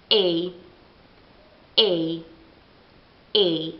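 A repeated as English ay, slowly. Shown as a demonstration. Teacher drilling English A for Italian learners. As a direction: drill A as the English letter name. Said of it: "ma è A".

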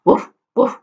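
mock woof asked as a trick question; wrong dog bark. Shown as a demonstration. Teacher teases kids with wrong animal sound. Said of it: "And do cats say".

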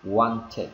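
"wanted" slowly as "wan-tid"; inserted -id ending. Shown as a demonstration. Teacher summing up the insertion rule, -id ending. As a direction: finish "wanted" with a short -id syllable. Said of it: "nó gọi là luật insertion".

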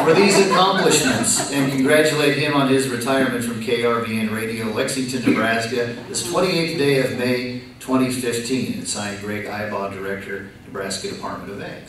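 measured official read-aloud; formal proclamation reading. Real, not acted.

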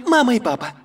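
ordinary talk, nothing marked

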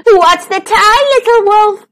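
high, loud giggly chant; high playful squeal. A narrator's reading. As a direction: call it like excited mice. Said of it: "they giggled".

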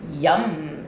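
satisfied squirrels. A narrator's reading. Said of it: "said the squirrels".

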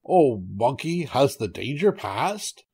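slow, drawn-out call; lightly voiced anxious tiger, words stretched. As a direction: call slowly to a passer-by. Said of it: "The tiger called out".

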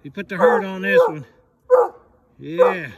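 high, eager calls to the hound; high-pitched praise urging the hound up the tree; excited dog calling. Real, not acted. Hunter urges hound up tree.

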